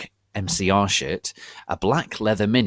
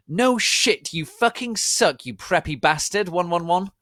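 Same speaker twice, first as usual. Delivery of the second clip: angry insults; 9 semitones higher, 4 dB louder than usual. A narrator's reading. Willow attacking Draco.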